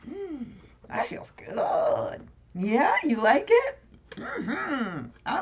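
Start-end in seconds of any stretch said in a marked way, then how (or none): 0.1-2.3 whispered contentment. Real, not acted. Relaxed in the pose.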